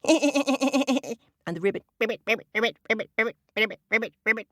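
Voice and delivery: high ribbits broken by laughter; laughing frog. Shown as a demonstration. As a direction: laugh and croak together. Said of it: "the laughing of a frog would go".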